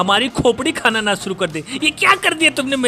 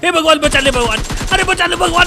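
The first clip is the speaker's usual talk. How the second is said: mock prayer; 4 semitones higher than usual. Real, not acted. Praying mid-fight.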